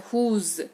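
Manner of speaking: whose ending on a buzzing z; ending z sound. Shown as a demonstration. Teacher showing whose ends with a z sound. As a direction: say whose with a clear z at the end. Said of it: "last में ज़ ऐसे वाला sound आता है".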